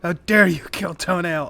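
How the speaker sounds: high, loud goblin war cry; furious goblin. Acted. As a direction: scream it like a raging goblin. GM voicing enraged goblin charging.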